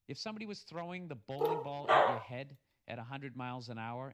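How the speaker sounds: loud, fired-up rant; heated rant. Real, not acted. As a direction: get worked up and push it. Heated rant about sports.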